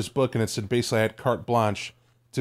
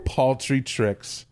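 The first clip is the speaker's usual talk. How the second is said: slow, disdainful old-world hint of British; drawn out dismissively, barely a British touch; haughty occultist; much slower than usual. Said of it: "trying to sound old world".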